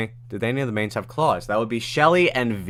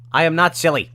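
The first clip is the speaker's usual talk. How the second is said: indignant denial; 6 semitones higher, 5 dB louder than usual. Acted.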